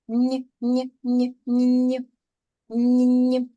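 ні ні ні, repeated as a firm, insistent no; firm correction. Real, not acted. Teacher correcting a child who says ня, firm no. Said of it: "Не можна казати ня".

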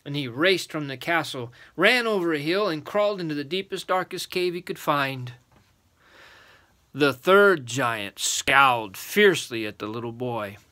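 measured, emphatic storybook reading; story narration. A narrator's reading. Adult reading a giant tale to children, storytelling voice.

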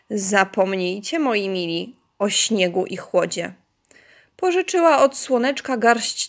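lilting, clearly phrased poem recital; poem for children. Acted. Teacher reading children a spring poem, lilting recital. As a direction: recite it line by line for small children.

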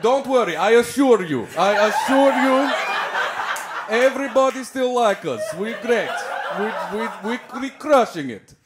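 lightly put-on Russian accent, reassuring; a hint of a Russian accent comforting people; half-hearted Russian accent; mock Russian accent. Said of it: "go up to Russian people like".

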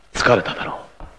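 hushed, near-whispered kindness; quiet breathy care; soft concern. Acted. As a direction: gently soothe the weary guest. Kindly easing tired companion.

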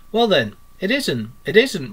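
mildly placating, lilting reply; hastily smooth it over; a touch of there-there reassurance; soothing. A narrator's reading. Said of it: "replied the Mole so soothingly".

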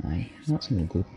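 put-on Scottish accent. Gamer recovering a lost accent, Scottish accent. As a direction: say it in a Scots accent. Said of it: "Lost me accent".

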